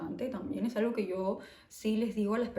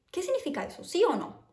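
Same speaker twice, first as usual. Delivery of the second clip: mock blunt Spaniard, pitched higher; directo, de frente; 9 semitones higher, faster than usual. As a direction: fire the question straight, no softening. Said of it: "los españoles son muy directos". (pregunta directa y tajante, imitando a un madrileño)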